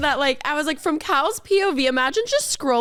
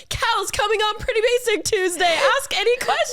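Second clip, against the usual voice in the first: reading the post; 8 semitones higher than usual. Retold or imitated. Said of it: "And it's like".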